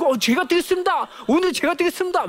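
high-pitched, clamouring volunteer; wildly eager kids. Acted. Kids vying to fetch water for teacher, wildly eager. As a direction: jump in eagerly like kids competing to help. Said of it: "하면 미쳐요".

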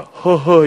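high, loud comic "heo-heo"; mimicked awkward "heo-heo". Husband told to hug his wife, comic awkward interjection. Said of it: "이분이 이럽니다".

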